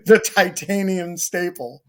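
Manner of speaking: loud, laughing pretend excuse at security; mock airport excuse. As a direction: play the traveller brushing off the beeping scanner. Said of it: "you're like".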